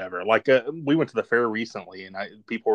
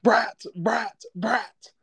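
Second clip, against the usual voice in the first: Mink Stole; 12 semitones higher, much slower than usual. Retold or imitated. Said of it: "I was like Mink Stole in".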